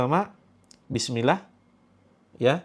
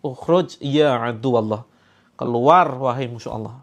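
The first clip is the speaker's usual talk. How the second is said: stern command; 2 semitones lower, 4 dB louder than usual. Shown as a demonstration.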